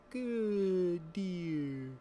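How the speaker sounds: high, drawn-out cooing; stretched put-on sweet voice; the speaker praising the deer. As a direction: imitate petting praise for an animal. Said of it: "pets it and goes".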